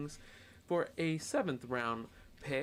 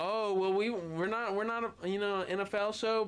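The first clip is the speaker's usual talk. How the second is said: surprised; 10 semitones higher, 4 dB louder than usual. Real, not acted. Surprised that cohost missed news.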